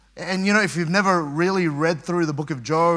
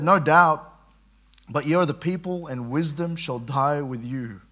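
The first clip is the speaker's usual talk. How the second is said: sarcastic; 2 semitones lower than usual. Retold or imitated. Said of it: "there's a bit of sarcasm there from Job".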